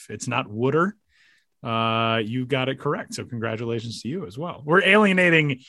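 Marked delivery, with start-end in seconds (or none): 0.5-0.9 "wooder" with a short oo as in wood; "wooder" in local Philadelphia pronunciation. Shown as a demonstration. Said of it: "very normal pronouncing Philadelphia area native".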